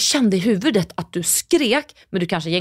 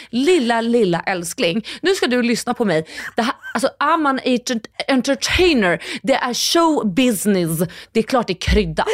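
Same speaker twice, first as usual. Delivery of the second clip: imitating husband Andreas; 4 semitones higher than usual. Husband lecturing his wife on spicing up podcast stories, mock showbiz voice. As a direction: coax like a smooth agent. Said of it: "Andreas har sagt till mig".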